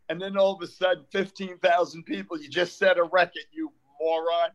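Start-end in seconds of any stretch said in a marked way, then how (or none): none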